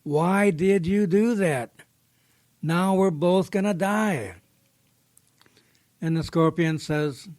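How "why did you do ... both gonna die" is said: slow, drawn-out dying plea; hammed-up last-gasp complaint, not weakened; mock dying breath. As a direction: stretch each word in lightly acted dismay. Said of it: "says in its dying breath".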